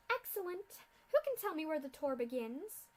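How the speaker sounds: haughty mad scientist mocking captives; sneering villain. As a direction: look down on these fools. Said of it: "Doctor Atmosphere speaks".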